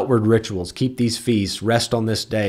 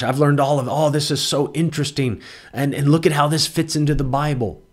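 eager and raised, gushing over new learning; mock excited convert; 4 semitones higher than usual. Teacher imitating an over-eager Hebrew roots learner, excited. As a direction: play the stirred-up Judaizer follower, a bit breathless with wonder. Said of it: "they're all stirred up and excited".

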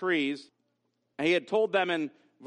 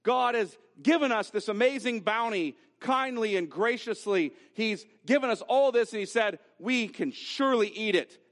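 raised, wholehearted acknowledgement; emphatic gratitude; 3 semitones higher than usual. Acted. Eve as grateful for God's bounty, emphatic. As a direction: marvel emphatically at the generous gift. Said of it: "It sounds like this".

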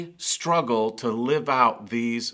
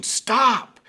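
high, loud panicked yell; fearful shout; 11 semitones higher, 5 dB louder than usual. Retold or imitated. Parent yelling at a child running toward a car, panicked shout. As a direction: scream it to stop a child from a car. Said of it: "you could hear emotion in a shout".

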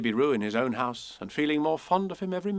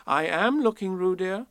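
severely; 7 semitones higher, 4 dB louder than usual. A narrator's reading. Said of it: "said Kanga rather severely".

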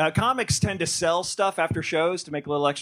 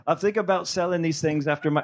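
badly faked Aussie accent; attempted Australian accent. Comic quoting his Australian friend, attempted Aussie accent. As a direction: have a shaky go at an Australian accent. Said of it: "I don't do accents".

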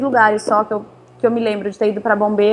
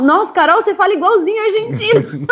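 laughing quote; 8 semitones higher than usual. Retold or imitated. Quoting Chilean friends teasing her.

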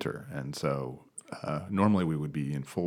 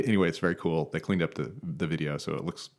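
ordinary delivery

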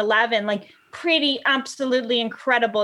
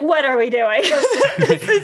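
laughing; 3 semitones higher, 4 dB louder than usual. Retold or imitated. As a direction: giggle through the words, half shocked. Laughing at being bitten.

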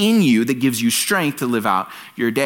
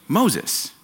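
higher, odd parrot squawk of a name; 5 semitones higher than usual. Retold or imitated. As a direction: play the parrot answering. Parrot answers burglar.

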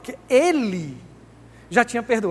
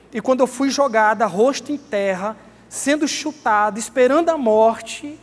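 anguished cry; 2 semitones higher, 6 dB louder, slower than usual. Acted. Woman recalls being stoned.

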